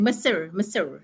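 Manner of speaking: Mesir in two syllables, ending like "sir"; demonstrated pronunciation. Shown as a demonstration. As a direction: show how Mesir is pronounced, as "muh-sir". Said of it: "we pronounce it".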